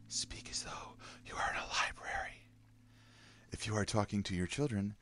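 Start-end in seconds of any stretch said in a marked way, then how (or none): 0.1-2.5 reads the line in a whisper. Shown as a demonstration. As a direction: hush it like in a library. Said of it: "indoor voice or a whisper".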